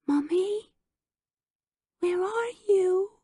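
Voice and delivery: put-on high, slow frightened little kid; tiny voice calling for mommy; small child's voice. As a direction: call out like a lost toddler.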